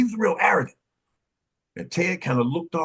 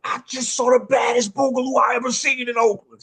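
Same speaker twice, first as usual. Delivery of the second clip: excited retold shout; 5 semitones higher than usual. Excited report to the guys.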